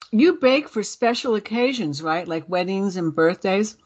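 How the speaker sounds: talking with a mouth full of cookie; words round a mouthful, last bit whispered. Real, not acted. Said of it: "I'm gonna talk with my mouth full".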